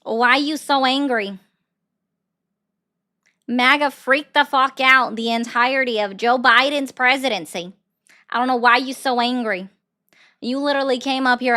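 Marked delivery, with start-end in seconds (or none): 0.0-9.7 mocking taunt. Real, not acted. Taunting the angry fellas.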